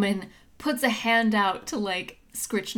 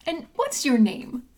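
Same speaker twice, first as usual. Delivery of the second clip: higher, eager friendly gnome; radiantly beaming; 6 semitones higher, 3 dB louder than usual. Acted. Gnome meeting a stranger, beaming and eager. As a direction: greet the newcomer with beaming delight. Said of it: "radiantly beaming up at her".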